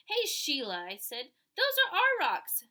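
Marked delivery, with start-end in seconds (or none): 0.1-0.8 calling out. Acted. Kids arguing over their rocks. 1.5-2.6 much higher, louder protest; indignant. Acted. Peter telling Sheila off for taking their rocks, loud and high.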